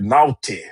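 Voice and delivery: "naughty" with a clearly sounded T; crisp-T naughty. Shown as a demonstration. Host teasing listeners about their secret profiles, crisp-T naughty. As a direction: say "naughty" with a hard, distinct T. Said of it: "not naughty, but naughty".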